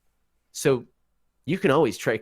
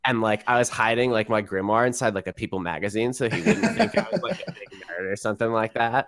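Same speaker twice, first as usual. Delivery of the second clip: lightly voiced valley girl; breezy valley girl gossip. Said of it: "a Valley Girl Vice".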